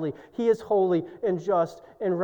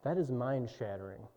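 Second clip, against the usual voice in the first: hushed awe; 5 semitones lower, 11 dB quieter than usual. Real, not acted. Awed quiet reflection.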